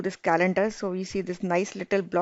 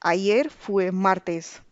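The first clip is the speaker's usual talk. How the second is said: ayer fue martes very slowly, word by word; slow clear model answer; much slower than usual. Shown as a demonstration. Teacher drilling the answer once more, slow and clear. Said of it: "Yesterday was Tuesday".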